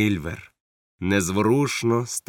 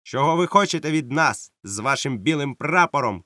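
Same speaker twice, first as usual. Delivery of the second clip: shouted demand; 6 semitones higher than usual. Acted. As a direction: call across the stockade. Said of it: "крикнув він".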